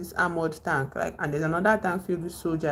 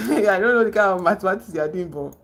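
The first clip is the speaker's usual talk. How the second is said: laughing through the words; 5 dB louder than usual. Real, not acted. Host amused by Stebbins' maths, laughing as she speaks. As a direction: chuckle it out, amused.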